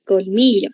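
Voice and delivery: "Colmillo" as col-MI-llo; stress on penultimate syllable. Shown as a demonstration. Teacher confirming the right answer, "Colmillo" said col-MI-llo. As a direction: lean on MI in "Colmillo". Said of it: "Penúltima, súper bien".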